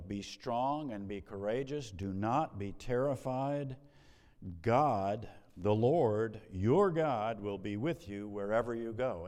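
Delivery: loud on God, the Lord, your God; ringing scripture declaration; emphatic proclaiming. Acted. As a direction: proclaim it from the pulpit.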